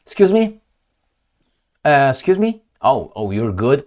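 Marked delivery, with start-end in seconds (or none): 0.1-0.6 mock surprise. After clearing throat, repeated.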